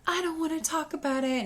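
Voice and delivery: sulky little kid voice, imitated. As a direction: mimic a moping little boy. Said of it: "And then it's".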